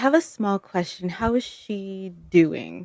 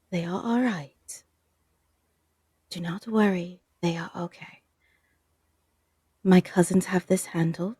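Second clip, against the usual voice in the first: tender reassurance; faster than usual. Acted. Odie holds her face and promises they are okay, tender reassurance. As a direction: soothe someone frightened, pausing between sentences.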